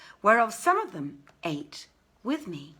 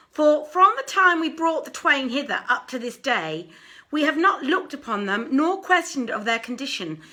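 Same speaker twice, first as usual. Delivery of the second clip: raised, louder robber voice, earnest; narrator voices the robbers; 4 semitones higher, 5 dB louder than usual. Acted. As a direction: lay out the robbers' case firmly to their guest. Robbers explain to the jeweler.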